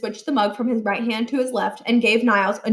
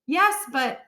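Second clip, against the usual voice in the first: meek protest; 4 semitones higher than usual. A narrator's reading. Holly tries to object.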